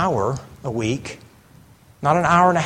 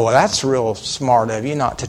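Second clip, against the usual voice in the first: smart aleck; 6 semitones lower than usual. Retold or imitated. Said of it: "that's a smart aleck response".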